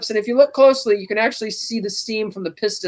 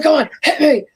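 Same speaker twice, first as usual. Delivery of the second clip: higher, louder mock Joker dare; daring taunt; 7 semitones higher, 4 dB louder than usual. Host playing Joker daring Batman, higher and louder. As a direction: dare him to ram you.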